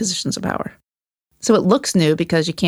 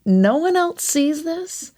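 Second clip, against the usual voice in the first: high, slow disbelieving question; incredulous; 10 semitones higher, much slower than usual. Retold or imitated. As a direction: drag it out, baffled nobody notices. Retelling disbelief in the training.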